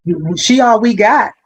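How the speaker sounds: laughing, high-pitched mimicry; imitated supervisors. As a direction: break into laughter while mimicking staff. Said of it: "if they tell you".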